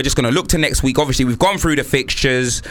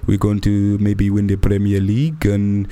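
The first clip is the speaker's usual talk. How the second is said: deluded Arsenal fan; 6 semitones lower than usual. Retold or imitated.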